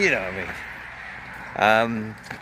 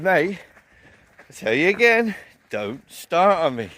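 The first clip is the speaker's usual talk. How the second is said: firm final warning; 5 semitones higher, 3 dB louder than usual. Retold or imitated.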